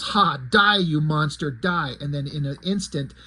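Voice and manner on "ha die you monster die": mild battle yell, strongest at the start; retold yell. Fisto attacks Skeletor, half-strength triumphant yell. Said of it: "So Fisto yells".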